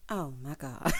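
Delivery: loud laughing. Real, not acted. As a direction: crack up at the scene. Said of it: "I hollered so loud".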